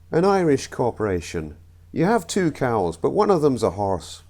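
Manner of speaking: comic put-on Irish accent. Comedian telling the Irish corporation joke, Irish accent. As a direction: try a rough Irish accent. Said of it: "I know the accents were awful".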